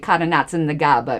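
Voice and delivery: put-on quick Italian-accented saying from dad; Italian phrase. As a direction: toss off dad's Italian phrase. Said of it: "My dad was Italian".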